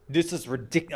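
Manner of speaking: put-on a clumsy stab at a Scottish accent. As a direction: start a Scottish accent, cut off. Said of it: "I'm trying to do a Scottish accent".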